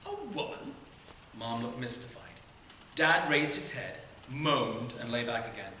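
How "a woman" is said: a high, softer surprised question; incredulous. Acted. Mom puzzled by Jared's story, high incredulous question. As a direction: disbelief at the odd claim.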